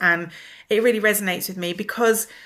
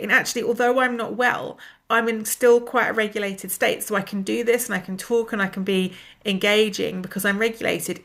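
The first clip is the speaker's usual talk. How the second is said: blocked nose. Real, not acted. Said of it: "I sound like I've got a peg on my nose".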